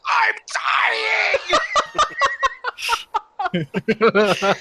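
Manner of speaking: imitating a child's panicked cry; mock panic. Kid after falling off the bars, mock panicked wail. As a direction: wail it like a winded kid sure he's dying. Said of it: "I actually thought I was fucking dying".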